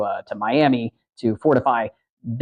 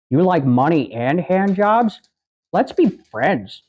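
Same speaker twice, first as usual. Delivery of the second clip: Idiocracy barista; 2 semitones higher, slower than usual. Retold or imitated. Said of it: "that scene in Idiocracy".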